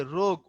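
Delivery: "রোগ" with a lengthened o; long vowel. Shown as a demonstration. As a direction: hold the ও in "রোগ". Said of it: "ও লম্বা হইছে".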